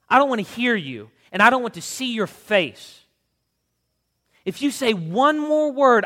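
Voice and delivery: loud, high screaming threat, slowing on the oath; mother looming over the boy, shouting threats; furious threat. A narrator's reading. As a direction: threaten him with everything you've got.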